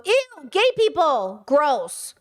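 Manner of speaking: a light caricature of a disgusted Republican; mock Republican disgust. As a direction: drag out the disgust, mocking. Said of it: "Republicans go".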